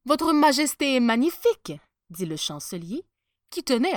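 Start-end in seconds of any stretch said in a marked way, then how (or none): 0.0-1.7 loud, raised-pitch admiration; flattering. A narrator's reading. Chancellor keen to keep his post, flattering. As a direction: flatter the ruler to save your job.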